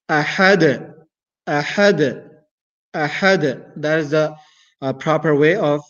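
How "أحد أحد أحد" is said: أحد with a small bounce on the final dal; a little bounce at the end of أحد; slight bounce. Shown as a demonstration. Teacher demonstrating a light qalqala. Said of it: "I bounce a little".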